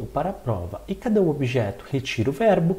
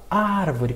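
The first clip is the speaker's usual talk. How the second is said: "árvore" with a drawn-out opening "ár"; stress on first syllable; 3 semitones higher than usual. Shown as a demonstration. Teacher showing students the strong syllable, stressed "árvore". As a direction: lean on the "ár" of "árvore". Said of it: "tem uma sílaba que ela é mais forte".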